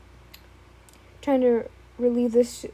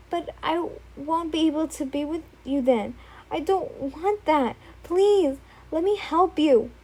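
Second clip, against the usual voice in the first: higher, eerily sweet; creepy devotion; 4 semitones higher than usual. Acted. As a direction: sound lovingly unhinged. Izuku insisting.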